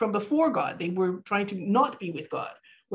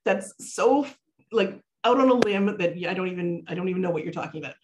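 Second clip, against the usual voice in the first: mock incredulous skeptic. Skeptical viewer scoffing at the teacher's far-fetched connection, mock disbelief. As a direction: lightly ham up an unconvinced listener. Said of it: "people that go".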